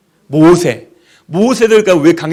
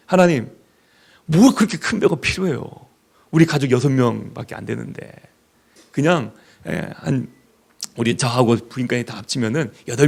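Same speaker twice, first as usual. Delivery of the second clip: whining bargain; 6 semitones lower, 6 dB quieter than usual. Retold or imitated. Congregant voiced bargaining with God.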